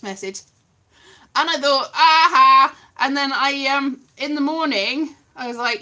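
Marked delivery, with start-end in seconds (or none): 1.9-2.8 aha. Retold or imitated. Recalling sudden idea.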